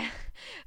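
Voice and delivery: short, high, soft laugh; a little girl's acted giggle. A narrator's reading. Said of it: "roześmiała się Jadwinia". (krótki, wysoki, cichy chichot dziewczynki)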